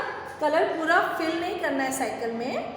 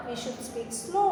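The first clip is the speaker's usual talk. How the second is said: slow dictation; 3 dB quieter, much slower than usual. Shown as a demonstration.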